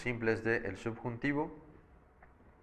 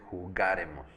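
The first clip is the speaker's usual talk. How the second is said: "jugaremos" stressed early, on GA. Shown as a demonstration. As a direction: punch GA in "jugaremos", letting "remos" fall away. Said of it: "en ga".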